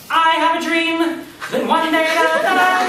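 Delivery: high, rousing speech voice; Martin Luther King. Retold or imitated. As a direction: preach it up high like a rally speech. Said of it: "amazingly high".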